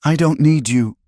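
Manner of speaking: high, distraught rejection; anguished cry. A narrator's reading. Tearful woman pushing him away, crying out. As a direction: cry out the refusal, pitched high. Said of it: "she cried, her voice cracking".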